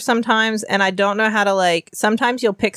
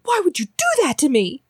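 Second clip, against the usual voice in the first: put-on high whiny teen wail; mortified teen girl; 9 semitones higher than usual. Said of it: "hung up and went".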